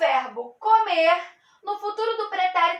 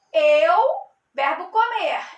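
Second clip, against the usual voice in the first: louder, emphatic conjugation; emphatic drill; 5 dB louder than usual. Shown as a demonstration. Teacher drilling the conjugation loudly for students. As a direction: call it out clearly for the class. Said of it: "Então, vamos lá".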